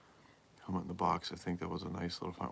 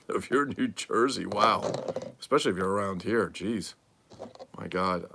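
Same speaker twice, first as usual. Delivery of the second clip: excited exclamations; 6 dB louder than usual. Real, not acted. Host reacting loudly to the nearby caller.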